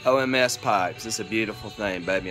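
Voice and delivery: talking around a pipe stem; words round a pipe in the teeth; pipe in mouth. Real, not acted. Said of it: "let me light my pipe again".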